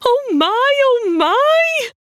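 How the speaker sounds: high, slow gasping awe; breathless gasp of wonder. Acted. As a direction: gasp it out, overwhelmed by beauty. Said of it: "the mole could only gasp".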